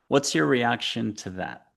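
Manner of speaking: usual speaking voice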